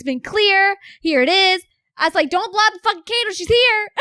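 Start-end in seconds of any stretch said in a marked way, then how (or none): 2.3-3.9 much higher, fast, thrilled; rushed, giddy warning about the candle; excited retelling. Retold or imitated. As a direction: blurt it out as if the sign just came. Retold excitement at the lit candle.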